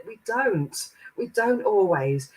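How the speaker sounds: high, lilting relayed reply; giggling guides. Retold or imitated. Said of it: "they're giggling and said".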